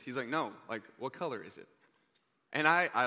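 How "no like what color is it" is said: low, quiet, earnest retold insistence; dead serious. Indian teen insists the American owns a Lamborghini, dead serious. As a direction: press the question with mock seriousness. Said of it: "he's dead serious".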